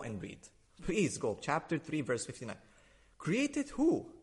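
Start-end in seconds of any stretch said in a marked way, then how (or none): 3.2-4.1 mock disbelief. Challenging Mario on the verse, in high mock disbelief. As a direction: pitch leaps high on who, then falls.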